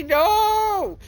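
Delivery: high, loud yelp of no; panicked shout. Acted. Player shouts as the numbers climb, high panicked yell.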